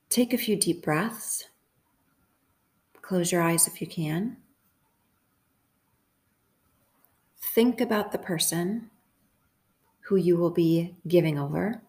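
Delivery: unhurried meditation guide with long pauses; calm, spaced-out guiding voice; guided meditation. Acted. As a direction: gently lead listeners into stillness, pausing between instructions.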